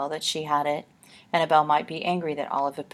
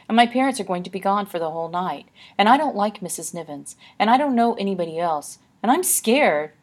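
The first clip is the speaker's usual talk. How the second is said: put-on scared girl; 4 semitones higher, 5 dB louder than usual. Olive admits being scared.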